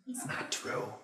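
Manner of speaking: soft whispered denial; whispered aside. Acted. Scoffing at the therapist's advice, whispered. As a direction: breathe it under your breath.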